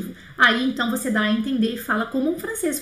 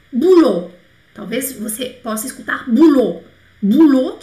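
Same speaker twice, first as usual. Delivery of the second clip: "Boulot" said much louder, punchy; emphatic vocabulary word; 7 dB louder than usual. Shown as a demonstration. Teacher calling out new vocabulary to students. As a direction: hit the new word hard. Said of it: "teaching new word loudly".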